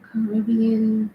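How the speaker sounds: slow, tentative go at Caribbean pronunciation; imitated Caribbean accent. Shown as a demonstration. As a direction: try it slowly in a Caribbean accent. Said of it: "Y'all say it like".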